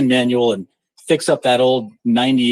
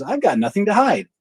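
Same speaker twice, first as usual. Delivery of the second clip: mock stubborn quote; 7 semitones higher than usual. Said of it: "digs their heels in and says".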